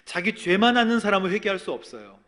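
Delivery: loud, impassioned sermon delivery; rising, intense pulpit voice; fervent preaching. Acted. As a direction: preach it out with full force. Preaching at full force.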